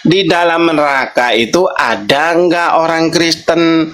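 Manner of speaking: very slow, word by word; slowly. Real, not acted. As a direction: drag the question out, patiently. Repeating the question a third time. (sangat pelan, kata demi kata)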